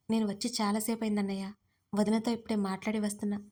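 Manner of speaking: plain reading voice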